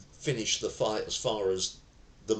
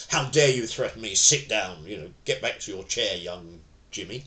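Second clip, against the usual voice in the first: authoritarian scolding; 5 dB louder than usual. Shown as a demonstration. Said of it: "not generally in an authoritarian manner".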